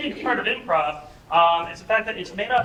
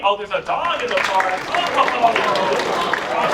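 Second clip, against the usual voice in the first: growing excitement; 5 dB louder than usual. Shown as a demonstration. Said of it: "maybe you went to a three".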